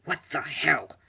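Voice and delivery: mildly incredulous exclamation; shocked outburst. Retold or imitated. Character reacting to a punch across the face, shocked.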